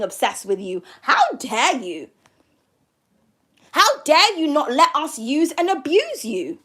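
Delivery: mock indignation, swooping on each "How dare"; crazy people's outrage. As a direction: play the offended accuser, leaning hard on "dare". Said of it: "channeling what these crazy people are saying".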